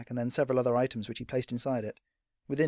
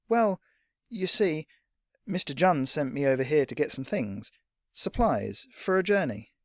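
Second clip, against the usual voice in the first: put-on a higher, hesitant young lad; a hint of a timid boy; lightly voiced nervous boy; 3 semitones higher, 4 dB louder than usual. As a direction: stammer it out, unsure of yourself. Trip voiced.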